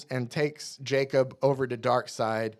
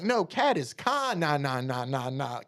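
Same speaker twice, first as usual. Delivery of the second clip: patient explaining. Retold or imitated. Voicing Scott explaining.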